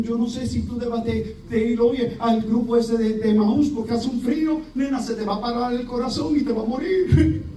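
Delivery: high, fretful mock warning; nervous worrier. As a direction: play the anxious busybody. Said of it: "personas que están siempre nerviosas".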